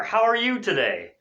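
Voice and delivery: high-pitched, lilting question; cheery greeting. Shown as a demonstration. Teacher offering another interview opener, cheery greeting.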